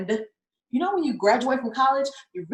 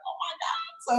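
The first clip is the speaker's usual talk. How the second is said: retold freak-out; 7 semitones higher, 7 dB quieter, slower than usual. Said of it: "we both wanna go freaking out".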